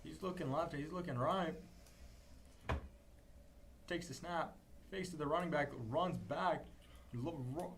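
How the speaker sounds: rising energy, calling the play live; excited play-by-play. Real, not acted. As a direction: build up as the run breaks open.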